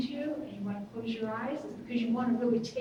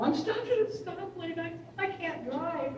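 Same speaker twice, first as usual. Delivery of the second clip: mock panic; 5 semitones higher than usual. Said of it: "on the phone with me hysterical".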